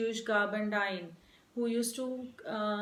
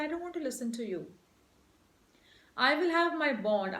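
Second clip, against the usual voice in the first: firm refusal. Acted. Teacher voices Shylock refusing.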